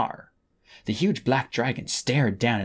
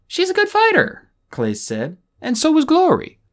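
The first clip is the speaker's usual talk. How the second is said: much higher, louder eager defense; young dragon voice; 6 dB louder than usual. A narrator's reading. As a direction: speak up bravely, voice high. Clay nervously defending friends.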